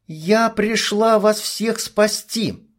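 high, slow shouted proclamation; shouting. A narrator's reading. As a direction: cry it out to the crowd. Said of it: "выкрикнула нимфа". (выкрикнуть громко)

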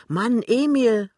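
high, loud, drawn-out call. A narrator's reading. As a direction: call sharply for your husband. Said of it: "ruft die Frau".

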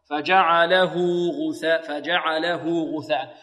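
slow, drawn-out tajweed recitation; Quran recitation. Shown as a demonstration. Teacher models the linked pronoun ha, slow recitation. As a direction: chant it evenly, linking the words with a long vowel.

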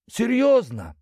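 high-pitched surprised question. A narrator's reading. Юлианна questions the order to seal the hole, high surprise. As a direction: jump up in pitch with disbelief. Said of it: "удивилась Юлиана".

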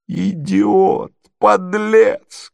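high, scolding name-calling; angry cry. A narrator's reading. Marya curses the departing pair, crying out angrily. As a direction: throw out each insult, pitched well up. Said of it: "кричала Марья Александровна".

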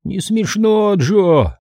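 boy lightly imitates the gnome; low creaky voice. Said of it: "изобразил низким скрипучим голосом".

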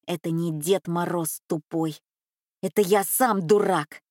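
ordinary delivery, nothing marked

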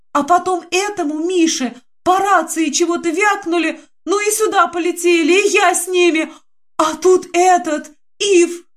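высоко и взволнованно, к концу до крика; выше, захлёбываясь от пережитого страха; испуганно плача. Acted. Динка рассказывает в слезах. (высоко, испуганно, до крика)

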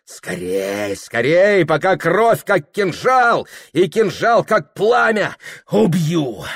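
rising breathless rush; frantic urgency. A narrator's reading. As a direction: push on, burning to kill. Son's frantic inner cry.

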